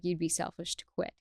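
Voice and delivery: soft, quiet inner voice telling her not to quit; a gentle inner voice, understated; calm inner voice. Retold or imitated. Calm voice in her head answering her mom guilt, quiet and soft. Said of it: "that calm voice comes over".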